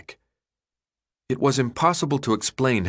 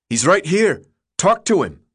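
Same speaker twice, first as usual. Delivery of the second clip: irritated retort; 8 semitones higher, 5 dB louder than usual. A narrator's reading. Newt snapping back.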